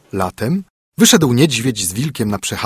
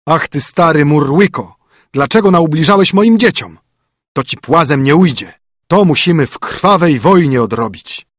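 louder, higher furious call; angry king's challenge; 5 semitones higher, 5 dB louder than usual. A narrator's reading. Wren king calls at the bear's den, angry and loud. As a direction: declare war on the bear. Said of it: "zawołał".

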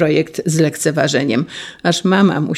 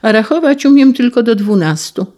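put-on little girl voice; 5 semitones higher, 4 dB louder than usual.

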